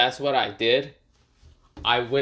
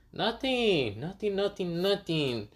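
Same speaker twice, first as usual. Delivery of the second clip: high, softer, repeated denial; hasty brush-off; 8 semitones higher, 5 dB quieter, slower than usual. Acted. Baruto covering his slip to Konohamaru, hasty brush-off. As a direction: wave it away in a small high voice.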